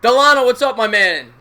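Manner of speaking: big, loud hello to a regular; hearty shout-out to a favourite caller; excited greeting. Real, not acted. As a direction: raise pitch and volume in delighted welcome.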